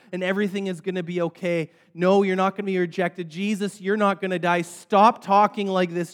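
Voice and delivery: lightly acted alarm, rising in pitch and insistence; alarmed Peter. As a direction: object urgently, pleading with increasing force. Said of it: "alarm bells is going off in Peter's mind".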